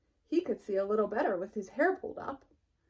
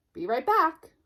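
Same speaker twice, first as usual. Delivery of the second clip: be right back; 6 semitones higher, 6 dB louder than usual. Acted. Sheep hurries off again.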